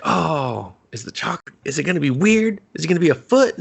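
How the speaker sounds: a hammed-up worried squeak; mock nervous worry. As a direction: fret like a wary dinner guest. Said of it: "And you're just like".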